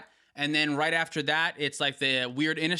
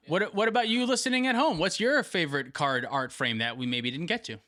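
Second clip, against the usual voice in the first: weird host voice. Acted. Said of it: "Why did you both say it so weird?".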